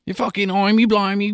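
high-pitched hammed-up Cockney; exaggerated Cockney banter; mock Cockney accent. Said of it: "Cockney accent".

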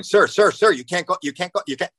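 high, insistent imitation of an office lady; flustered office lady. Office lady trying to stop a father in the hallway, mock flustered. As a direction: call urgently after someone, acting it out.

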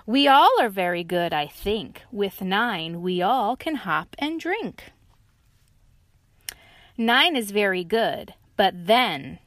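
loud friendly agreement; rally each other on; lively animal voices; cheerful boast. Acted.

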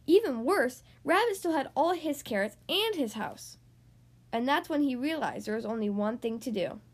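animated picture-book narration with swooping emphasis; read-aloud to children. A narrator's reading. Host reading a story to young listeners, lively storytelling. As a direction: read a picture book to small children, stretching key words.

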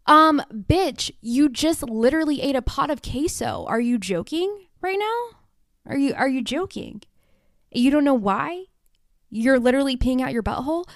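high, loud, incredulous scolding; exasperated callout. Acted. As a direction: roast a friend who missed the obvious. Scolding her past self.

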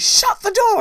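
loud high bark of an order; shout. Retold or imitated. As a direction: yell it to shut them out. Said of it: "one of the officials just shouts".

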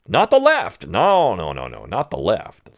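mock their denial; sarcastic. Host mocks opponents' excuses, sarcastic.

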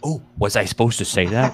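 laughing at own slip. Real, not acted. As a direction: giggly, caught out. Slip about Budweiser, laughing.

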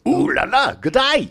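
mock French accent. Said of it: "That's how he would greet everybody".

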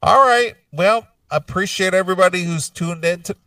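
talking through hiccups; words broken by a hiccup. Real, not acted. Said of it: "I got the hiccups like crazy".

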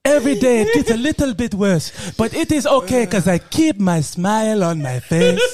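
upbeat, put-on African accent. Sick villager keeping his smile, happy African accent. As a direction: play a cheerful pickle seller with an African accent. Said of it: "got to do that accent".

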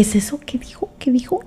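soft hushed question, almost unvoiced; whisper. Son secretly whispering to his mother about what was said, hushed. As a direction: lean in and whisper so the partner won't hear.

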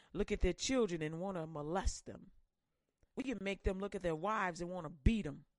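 a hint of a sly demon plotting; gloating demon voice. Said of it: "is a familiar spirit".

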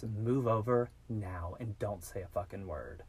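slow, controlled menace, retold; calm threat. Kidnapper with a knife ordering a driver, calm threat. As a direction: give the order slowly, without raising your voice. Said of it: "he was very calm".

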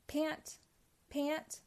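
high little tired "pant, pant"; small, spent baby voice, lightly acted; gasping. A narrator's reading. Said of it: "gasped Baby Pac-Man".

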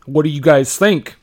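put-on American accent with a loud greeting; a celebrity's best attempt at sounding American; Gerard Butler's American accent. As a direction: try hard at an American accent. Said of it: "I'm doing my best American accent".

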